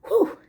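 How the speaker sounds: a real breathless whew, pitched high; puffing out air after the effort; winded exhale. Real, not acted. Tired from the tour, she blows out a winded whew. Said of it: "now that I'm out of breath".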